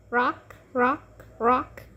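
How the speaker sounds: quiet, sing-song rocking words; soft rocking. A narrator's reading. Ivy rocks the baby, soft and lulling. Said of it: "Then she rocked".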